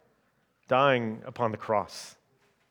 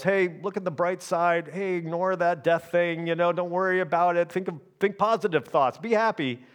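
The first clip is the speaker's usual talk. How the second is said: high, chirpy pep-talk voice; mock cheerful; 5 semitones higher than usual. Pastor parodying shallow comfort about death, chirpy and hollow. Mocking empty cheerful advice.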